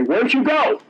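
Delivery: high, puzzled call of surprise; startled high question; bewildered students. Retold or imitated. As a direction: ask it like you just woke from a daze. Students waking, asking where he went.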